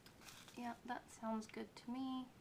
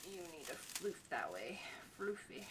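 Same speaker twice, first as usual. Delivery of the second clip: whispering; 4 semitones lower, 3 dB quieter than usual. Real, not acted. Coaxing the decoration.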